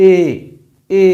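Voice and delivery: এ said as a clear "e"; vowel demo. Shown as a demonstration. Teacher to class, modelling the correct vowel: এ said plainly. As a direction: model এ directly. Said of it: "উচ্চারণ হবে সরাসরি".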